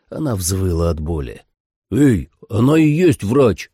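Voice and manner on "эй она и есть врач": loud, slow, higher-pitched objection; shouted protest. A narrator's reading. Troy telling agents she is the doctor, shouting. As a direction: shout to stop them. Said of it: "крикнул Трой".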